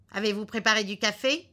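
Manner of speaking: lightly voiced elderly husband; husband's question. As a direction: ask the husband's question briskly.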